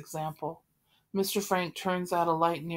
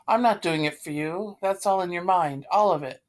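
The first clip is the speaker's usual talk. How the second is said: angry; 6 dB louder than usual. Acted. Angry quarrel over the cat.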